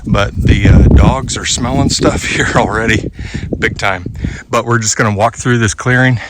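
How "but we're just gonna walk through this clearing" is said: winded from climbing a hill; out of breath. Real, not acted. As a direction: talk while catching your breath. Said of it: "Sorry, I'm out of breath".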